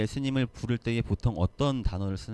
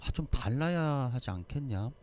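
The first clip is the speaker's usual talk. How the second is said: regretful. Retold or imitated. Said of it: "너무나도 안타까워요".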